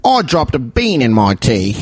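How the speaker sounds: silly put-on British voice; mock British accent. Host improvising tea line, mock British accent. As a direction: play it as a daft Brit. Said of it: "do a British accent".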